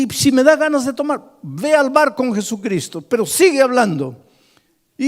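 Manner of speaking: high, loud, rising sermon cry; building from an earnest prayer to a full-force preaching shout; fiery preaching. Acted. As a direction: preach it at the top of your voice.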